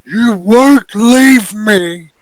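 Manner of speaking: high, loud, drawn-out monster cry; desperate bear refusing to let go; possessive bear. Acted. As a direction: insist slowly and loudly, pitched right up. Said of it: "he thumps down a big".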